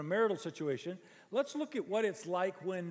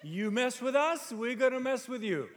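amused emphasis; 5 semitones higher, 5 dB louder than usual. Real, not acted. Preacher echoes clip, amused.

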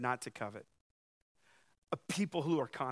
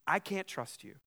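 anxious confession; 2 semitones higher, 4 dB louder than usual. Retold or imitated. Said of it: "coveting is saying this".

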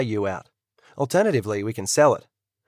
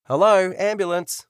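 slow, higher call from another room; 7 semitones higher, slower than usual. Acted. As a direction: call out to find the injured man. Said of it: "a voice calls out".

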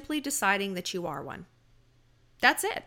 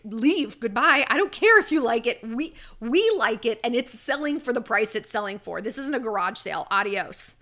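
louder, curt brush-off; haughty dismissal; 4 dB louder than usual. Retold or imitated. Gucci staff telling a picky customer to leave, haughty. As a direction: shoo the customer out without a care. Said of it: "They're like".

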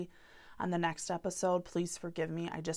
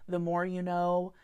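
cheesy promo voice; 4 dB louder than usual. Retold or imitated. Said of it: "N B C promo way".

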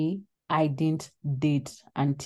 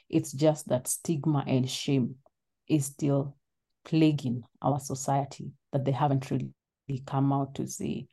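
trembling, holding back tears; shaky voice. Real, not acted. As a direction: voice shaking with emotion. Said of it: "your voice shaking".

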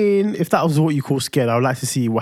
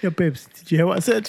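higher, lighter calling voice; lightly higher call; 5 semitones higher than usual. Retold or imitated. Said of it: "lightness in my voice".

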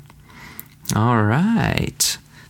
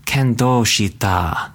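moved; slower than usual. Shown as a demonstration. Teacher's corrected take, sincerely moved. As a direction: say kando shita as if truly touched. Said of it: "There you go".

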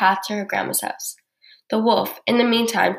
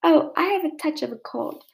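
high, squeezed wheezy voice; wolf feigning a cold in a high voice; wheezed granny disguise; 6 semitones higher than usual. A narrator's reading. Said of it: "squeezed the wolf".

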